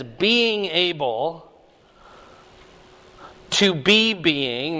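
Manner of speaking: word by word, very slow; slow literal reading. Shown as a demonstration. Pastor teaching the class the literal Greek, read very slowly. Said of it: "and this is present tense".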